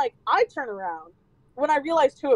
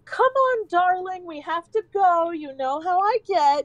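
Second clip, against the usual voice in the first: sweet-talking grandma; 4 semitones higher than usual. Retold or imitated. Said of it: "changed her tune".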